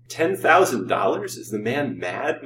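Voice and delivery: slow, incredulous question, starting high; muttered disbelief. A narrator's reading. Rich man balks at the doctor's price, muttering incredulously. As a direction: balk at it, drawing the words out. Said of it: "muttered Colville".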